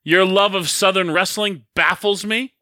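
mock-heated grievance; playful promo-style dressing-down; bringing the heat. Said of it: "you're bringing the heat".

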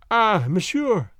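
put-on slow, halting French-accented English; lightly French-accented, drawn out; broken English. A narrator's reading. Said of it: "she said in broken English".

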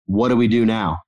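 a hint of a Scottish brogue; imitating Scottish accent. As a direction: voice Steven with a playful Scottish accent. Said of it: "he's got this really funny accent".

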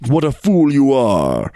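slow, drawn-out scorn; lightly acted exasperation; scornful tiger. Tiger corrects the foolish jackal, slow and scornful.

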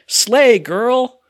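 high, loud mocking imitation; Louis. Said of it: "Louis is there, and he goes".

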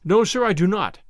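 emphatic no, sir; with emphasis. A narrator's reading. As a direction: plant your feet on every word. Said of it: "with emphasis".

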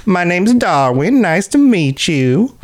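high, slow Northern Florida salesman welcome; imitating Darwin. Imitating coworker Darwin welcoming customers, high and slow. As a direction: greet them like a folksy salesman, drawn out and high. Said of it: "that was his voice".

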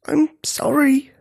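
high, slow whispered apology; slow, airy whisper; weak whisper. A narrator's reading. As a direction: whisper it with failing breath. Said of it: "whispered Octavia".

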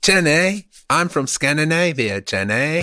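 lightly put-on Scandinavian accent; mock Scandinavian lilt, rising on the name. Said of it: "let's do the Scandinavian version".

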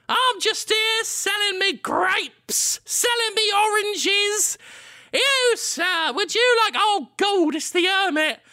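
very high, slow wide-eyed trader; squeaky-high innocent fruit seller; high vendor voice. Acted. Vendor voice returns.

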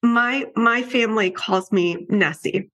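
high, tearful voice close to breaking; real emotion welling up as she pictures him; choked up. Real, not acted. Telling of meeting her late brother again, voice choked with tears.

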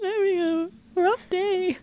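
fighting back real tears; teary voice. Real, not acted. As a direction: voice breaking near tears. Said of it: "Don't cry, Tara".

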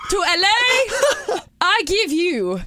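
high, loud, stretched-out announcer shout; huge hammed-up intro, slow and high; hype girl. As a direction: bellow a star's entrance, dragging every word. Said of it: "I think that'll get the people hype".

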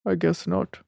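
lightly voiced low, reluctant reply; imitating Rob. Recapper plays a castmate's reply to Malia, lightly imitated. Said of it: "And he's like".

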